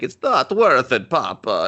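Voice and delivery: loud, bad Eastern European accent; mock Eastern European accent. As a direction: imitate a badly faked Eastern European mama. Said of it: "And they all talk like that".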